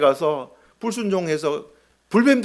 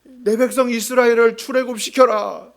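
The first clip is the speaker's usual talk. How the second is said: higher, drawn-out summons with authority; God's commanding call; 5 semitones higher, 4 dB louder, slower than usual. Acted. God summoning Moses to lead the people out, commanding. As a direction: call out a divine command, stretching the words.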